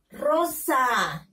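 Rosa read as one connected word; teacher reading Rosa whole for pupils; syllables joined. Shown as a demonstration. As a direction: blend "Rosa" with no gap, falling at the end. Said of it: "Lean, niños".

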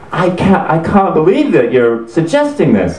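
hammed-up emotional protest; mock intense disbelief. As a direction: act scandalised and worked up. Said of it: "he's getting intense".

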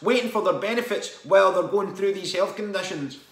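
rising angry rant about sick notes. Real, not acted. Venting to viewers, worked-up angry rant.

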